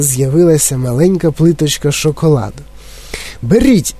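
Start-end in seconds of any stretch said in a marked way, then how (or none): 3.4-3.9 high, mildly shouted command; excited cry, pitched well up; Містер Вонка. A narrator's reading. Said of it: "закричав містер Вонка". (збуджений високий вигук)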